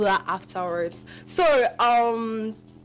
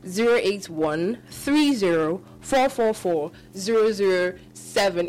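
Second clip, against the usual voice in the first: digits spaced out, slower still; radio host repeating the number slowly; slow repeated dictation. Shown as a demonstration. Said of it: "In case you didn't hear".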